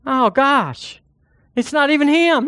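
high whiny mock complaint; mocking the offended man. Preacher mocking an offended brother, high whiny complaint. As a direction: whine it like a sulky man. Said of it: "he's just like".

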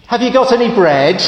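a cheeky duck asking again and again; pestering duck. Acted.

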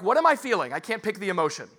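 frustrated confusion. Retold or imitated.

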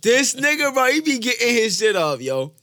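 high, loud repeated hype lines; mimicking his repetition. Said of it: "I gotta start talking like this nigga".

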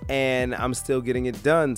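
hoarse, worn-out voice from illness; hoarse from being sick. Real, not acted. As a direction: speak through a sick, hoarse throat. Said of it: "My voice is kinda shot from being sick".

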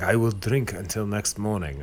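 mock East Asian accent, broken English. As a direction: imitate a Korean accent on the English. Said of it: "I'm doing a racist Asian accent now".

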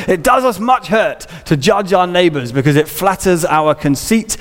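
lightly voiced Victorian preacher, measured; Charles Spurgeon. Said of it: "a nineteenth century Spurgeon voice".

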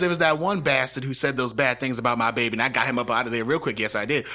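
put-on Southern mom accent. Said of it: "I can do a Southern accent".

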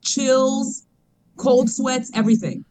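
choppy robotic call audio; glitchy disjointed phone line. Real, not acted. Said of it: "Why do you sound like a robot?".

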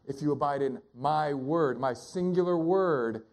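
"word" weighted and repeated, slowing on "singular word"; deliberate emphasis on "word"; stress on word. Shown as a demonstration. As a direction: lean on "my word", then stretch "singular word". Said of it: "when you emphasize a word".

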